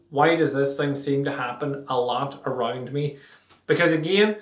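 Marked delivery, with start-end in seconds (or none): 0.1-3.2 genuine inquiry. Shown as a demonstration. Showing listeners the real question, asked sincerely. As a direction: ask it as if you really want the answer. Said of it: "but why?".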